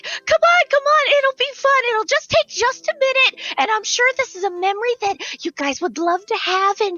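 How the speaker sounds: high, bubbly shop clerk; valley girl. Acted. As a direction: coax them in a high sing-song voice. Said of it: "she's like".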